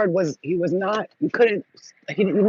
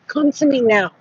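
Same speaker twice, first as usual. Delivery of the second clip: louder, raised-pitch call; commanding summons; 4 semitones higher, 5 dB louder than usual. Retold or imitated. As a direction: summon your protectors firmly.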